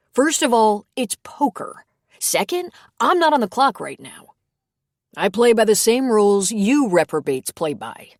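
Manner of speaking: high, mock-indignant protest; playful indignant priest. A narrator's reading. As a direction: defend himself with a grin. Tim's voice, playful defence.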